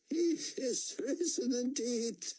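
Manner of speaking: high, slow, faltering voice; a trembling, slow response; barely managed reply. A narrator's reading. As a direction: squeeze out the words through shock. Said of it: "she managed".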